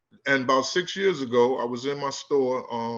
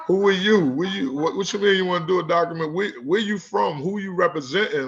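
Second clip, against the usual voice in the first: higher-pitched, rapid-fire wary questioning, half amused; retold street-smart suspicion; 4 semitones higher than usual. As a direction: act out grilling a stranger, pitch raised. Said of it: "now my street sense is kicking in".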